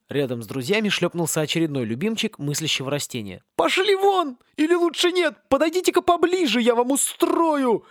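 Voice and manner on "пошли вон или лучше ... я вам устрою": raging palm tree. Acted. Palm raging over its stolen coconuts, high and frenzied. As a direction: rave over your beloved coconuts.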